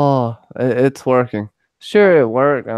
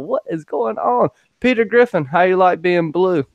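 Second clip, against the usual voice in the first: hyped greeting; 6 semitones higher than usual. Real, not acted. Streamer greeting fans in chat, high and excited.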